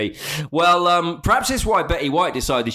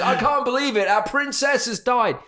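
mock weeping fan; 8 semitones higher than usual.

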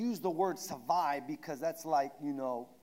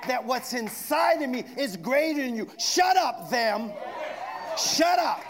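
rising to a shout at the problem; mock rebuke; 5 semitones higher, 4 dB louder than usual. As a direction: grab it by the collar and yell. Preacher rebukes "them" aloud.

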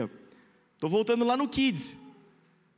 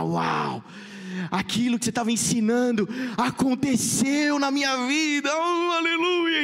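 excited testimony; 4 semitones higher than usual. Retold or imitated. Student's excited testimony retold.

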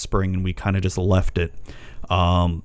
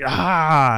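a short higher, louder "Ah!" of disgust; disgusted yelp; 6 semitones higher, 3 dB louder than usual. Retold or imitated. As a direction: recoil at trash on the floor. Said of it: "I'm just like".

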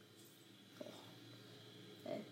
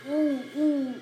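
alarmed; 6 semitones higher, 12 dB louder than usual. Real, not acted. Alarmed at danger.

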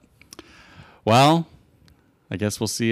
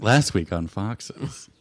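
slow TV announcer; 3 dB quieter, much slower than usual. Pretend. Mock TV recap.

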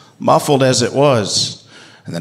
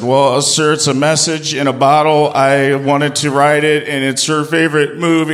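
higher, louder, flustered and polite; nervous polite squeak; 6 semitones higher, 3 dB louder than usual. Retold or imitated. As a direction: stammer it out to a scary dad. Nervous boy explaining to dad.

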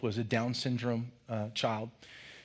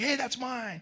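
put-on kid's voice; 10 semitones higher than usual. Kid claiming his egg.

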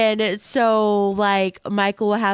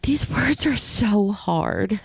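slow, out of breath reading; struggling for breath between words; much slower than usual. Real, not acted. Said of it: "I'm out of breath already".

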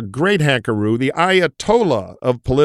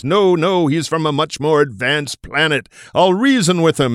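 earnest professor; 4 semitones higher than usual. Retold or imitated. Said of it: "the professor says".

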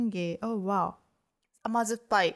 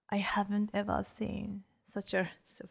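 whispering; 6 dB quieter than usual. Real, not acted. Amazed at meat variety.

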